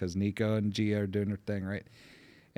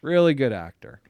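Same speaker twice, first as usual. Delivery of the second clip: higher, lightly hammed-up enthusiasm; eager reply; 5 semitones higher, 6 dB louder than usual. Father retelling his answer to the commercial offer, eager. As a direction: pitch it up, playfully sold.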